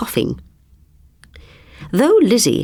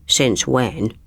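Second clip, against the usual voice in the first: dark mutter; 4 semitones lower than usual. Acted. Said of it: "muttered Glad darkly".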